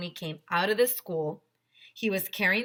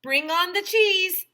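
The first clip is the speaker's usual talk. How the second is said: higher, louder call across the playground; teacher calling the moms to bring cheese, loud and high; shouted command; 13 semitones higher, 8 dB louder, slower than usual. A narrator's reading. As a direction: shout the order with glee. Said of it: "shouted Mister Tony".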